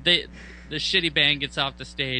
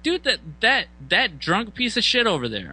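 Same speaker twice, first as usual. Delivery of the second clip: high, louder, indignant; indignant complaint; 9 semitones higher, 3 dB louder than usual. Retold or imitated. Telling the band about the drunk, high and indignant. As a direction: point and complain, pitched up. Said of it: "I was like".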